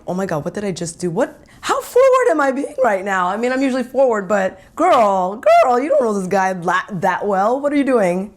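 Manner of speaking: nervous inner voice. Retold or imitated. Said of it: "I'm starting to feel nervous".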